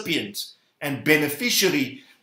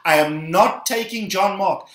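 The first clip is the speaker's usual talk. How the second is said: indignant, raised-pitch complaint about a deserter; angry refusal; 3 semitones higher than usual. Acted. Paul refuses to take John Mark along, angry. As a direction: refuse firmly, building the grievance point by point. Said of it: "Paul was so angry with him".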